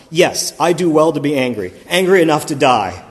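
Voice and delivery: a loud, indignant sulk with a laugh breaking in; hammed-up indignation, half laughing; petulant anger. Sulking Jonah answering God, loud and indignant. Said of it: "It's just the tone I hear".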